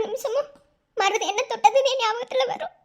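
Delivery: a sob catching in the voice; crying. Acted. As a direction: weep as the memory comes. Daughter confesses pain, crying.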